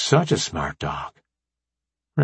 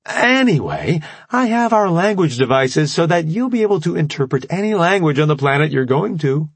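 put-on perky young scientist; 7 semitones higher than usual. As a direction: sweetly introduce yourself.

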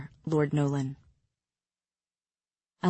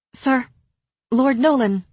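higher-pitched, halting address; a hint of a higher female voice, appealing to a lord; lightly voiced young woman; 6 semitones higher, 4 dB louder than usual. A narrator's reading. Timid Elaine addresses the lord.

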